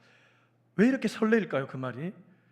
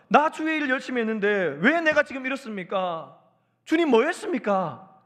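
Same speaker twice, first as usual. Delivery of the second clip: higher-pitched, indignant challenge; confrontational complaint; 4 semitones higher than usual. Acted. Elijah demands an answer from the Lord, indignant protest. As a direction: take God to task, acted out. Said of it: "이렇게 따지는 겁니다".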